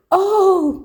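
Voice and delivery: breathless whispered oh; a hushed gasp of wonder at the window; whispered, amazed oh; awed gasp. A narrator's reading. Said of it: "cried Josephine".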